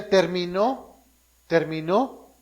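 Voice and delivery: Terminó stretched out slowly and loudly; preacher stressing "Terminó" with a slow, loud rise; emphatic reading. Shown as a demonstration. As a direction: lean hard into "Terminó, terminó". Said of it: "Y después dice".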